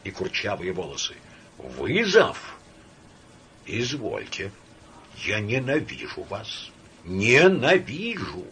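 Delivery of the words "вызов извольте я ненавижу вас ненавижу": seething hatred. Acted. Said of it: "проговорил тихо".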